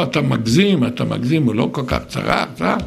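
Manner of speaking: low, dismissive, trailing off; dismissive wife. Retold or imitated. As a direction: wave it away like a wife unimpressed. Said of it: "שהיא תגיד לי אחר כך".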